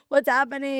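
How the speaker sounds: put-on bewildered teen. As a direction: act out a baffled growing kid. Voicing fast-growing teenage boys, bewildered.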